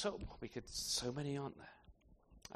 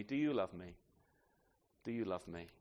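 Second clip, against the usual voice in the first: low, soft, repeated question; tender questioning; 7 semitones lower, 5 dB quieter than usual. Retold or imitated. Jesus restores Peter, asking three times, tender questioning. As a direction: ask it softly and low, letting it sink.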